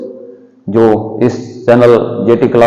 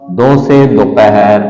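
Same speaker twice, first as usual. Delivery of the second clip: slow syllable-by-syllable; slower than usual. Shown as a demonstration. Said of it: "धीरे धीरे बोलिए".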